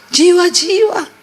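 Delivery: jiwa-jiwa diucapkan lambat dan ditekan; penekanan khotbah. Acted. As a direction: tekankan jiwa-jiwa perlahan. Puncak khotbah. (jiwa-jiwa diberi tekanan pelan)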